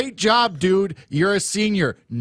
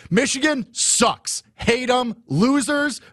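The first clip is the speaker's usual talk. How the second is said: trash talk; 8 semitones higher, slower than usual. Real, not acted. Trash-talking rival fans.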